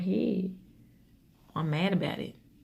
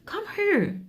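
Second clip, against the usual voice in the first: put-on calling child sternly; 13 semitones higher than usual. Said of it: "I said".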